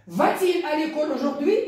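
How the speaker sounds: high question, rising on "aujourd'hui"; question intonation. Shown as a demonstration. Teacher models an interrogative sentence for the class, question intonation. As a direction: lift "aujourd'hui" at the end as a question. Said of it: "Voilà une phrase interrogative".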